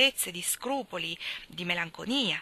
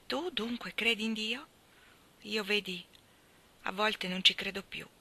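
put-on humble old servant. Elia speaks of God softly.

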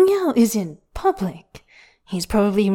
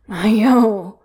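ground out louder through gritted teeth; gritted, desperate; 2 semitones higher, 6 dB louder than usual. Acted. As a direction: force the name out in desperation. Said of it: "grits out desperately".

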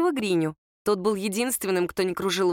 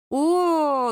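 grimacing oh; 7 semitones higher, 4 dB louder than usual. A narrator's reading. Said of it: "дружно скривились подруги".

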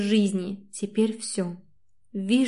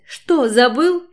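angry shout; 4 semitones higher, 5 dB louder, slower than usual. A narrator's reading. Angry quarrel.

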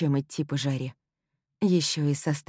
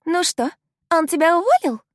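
much higher, louder mocking singsong; snide singsong; 13 semitones higher, 8 dB louder than usual. Sam taunts the heroine after the boss meeting, snide singsong. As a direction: sing it out sweetly to needle her. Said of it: "ехидно пропела Сэм".

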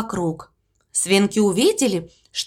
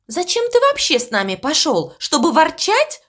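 snapping; 6 semitones higher than usual. Acted. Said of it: "накинулся на него Элвис".

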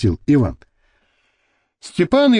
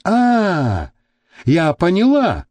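chirping; 4 semitones higher, slower than usual. Acted. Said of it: "прощебетала модель".

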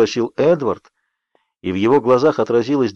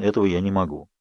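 sighing; 4 semitones lower, 6 dB quieter than usual. A narrator's reading. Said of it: "вздохнул он".

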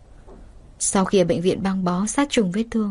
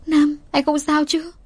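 higher, slow and anxious; worried, near tears; 7 semitones higher than usual. Acted. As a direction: ask him fearfully, eyes welling. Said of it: "Đôi mắt cô vì lo sợ mà ngấn nước". (giọng lo sợ, cao và chậm)

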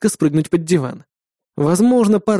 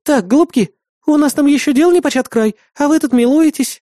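much higher, loud playful scolding; teasing woman; 9 semitones higher, 3 dB louder than usual. Acted. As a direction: tease the lovebirds. Woman teases the couple. (насмешливо, высоко и громко)

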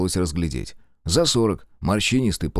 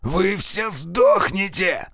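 pained cursing; 12 semitones higher, much slower than usual. Acted. Shot man curses in pain.

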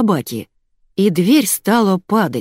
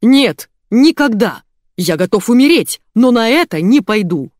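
loud, raised-pitch protest; squealing refusal; 5 semitones higher, 6 dB louder than usual. A narrator's reading. Usually calm boss refusing staff, squealing protest. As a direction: refuse loudly and vehemently. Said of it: "завизжал всегда спокойный Илья".

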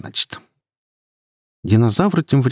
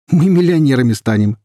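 gleeful, louder and higher; raised, jubilant poacher voice; laughing delight; 6 semitones higher, 6 dB louder than usual. A narrator's reading. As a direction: crow over a coming fortune. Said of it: "рассмеялся Гена".

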